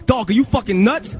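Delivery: high-pitched, incredulous dude voice; put-on exasperated street talk; outraged label guy. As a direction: imitate an indignant caller. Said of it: "This is what he was saying".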